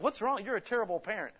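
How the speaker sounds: high-pitched mock outrage; indignant scolding. Onlooker to parent who yanked a child back, indignant scolding. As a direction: imitate a shocked, judging bystander.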